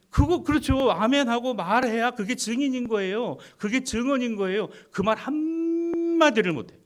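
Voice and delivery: high, loud, pressing the point; emphatic exhortation. Real, not acted. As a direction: urge them on, voice climbing. Pastor exhorting congregation.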